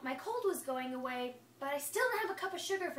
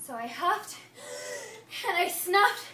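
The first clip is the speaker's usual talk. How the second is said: huffing up to a sneeze, rising louder; building sneeze; 6 semitones higher, 7 dB louder than usual. Acted. Wolf winds up a sneeze at the pig's house, building. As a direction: breathe in harder and harder before the sneeze.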